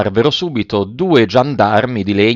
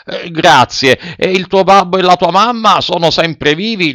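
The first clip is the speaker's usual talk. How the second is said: lightly voiced puppeteer, raised pitch; a hint of gruff showman; gruff puppeteer, softening; 6 semitones higher than usual. A narrator's reading. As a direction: ask as the softening puppet master.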